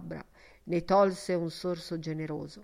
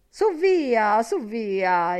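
higher, much louder "Su via" that settles on the repeat; loud urging call; 3 semitones higher, 8 dB louder, much slower than usual. A narrator's reading. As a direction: push forward, calling the others to order. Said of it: "esclama le fécondateur".

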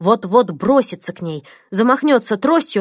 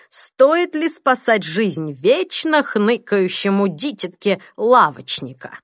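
growing anger; slower than usual. Acted. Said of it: "В голосе Бенчли нарастал гнев".

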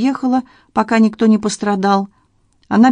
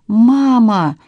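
a raised, pleading cry of Mama; cry for help; 4 semitones higher, 3 dB louder than usual. A narrator's reading. Hanna begging her mother to stop, pleading cry. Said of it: "Это прозвучало как вопль о помощи".

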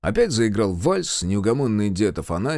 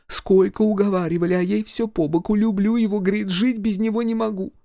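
village mother-in-law; 10 semitones higher than usual. Acted. Mother-in-law scolding her husband at the wedding. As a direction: scold the drunk husband, then coax the major.

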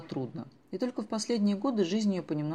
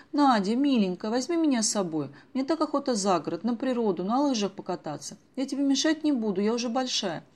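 higher, coaxing plea; girl begging her mother's friend to take her along, pleading higher; 5 semitones higher, 4 dB louder than usual. Acted. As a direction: beg sweetly like an eager girl. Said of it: "взмолилась Даша".

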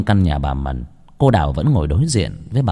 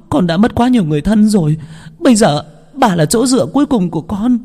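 high, louder tearful begging; crying, begging; 13 semitones higher, 3 dB louder than usual. Acted. Đào begs her grandmother to let her stay, crying. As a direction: plead through sobs not to be sent away. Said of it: "cô khóc".

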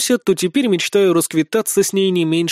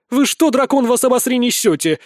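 high, louder outraged outburst; boiling exclamation; 7 semitones higher, 3 dB louder than usual. A narrator's reading. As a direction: explode at the absurd boasting. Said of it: "воскликнула закипающая Шейла". (возмущённый возглас, выше и громче)

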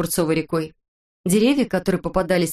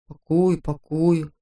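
mocking mimicry; much slower than usual. A narrator's reading. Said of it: "передразнил его Ворчун".

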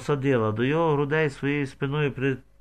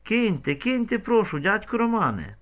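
much higher pleading scream; terrified shriek; 8 semitones higher than usual. A narrator's reading. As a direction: beg him to stop, panicked. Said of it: "верещала від жаху".

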